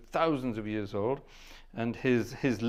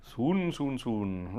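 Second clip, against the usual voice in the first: teasing; much slower than usual. Pretend. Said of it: "I got carried away there".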